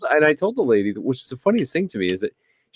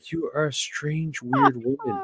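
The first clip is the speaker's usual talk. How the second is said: incredulous insult; 5 semitones higher, 6 dB quieter than usual. Retold or imitated. Retold argument with Karen.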